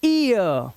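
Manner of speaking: "ईयर" drawn out as ee-ya; slow, gliding "ईयर"; ee-ya sound. Shown as a demonstration. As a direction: stretch "ईयर" from ee into ya. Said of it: "ईए का उच्चारण क्या है".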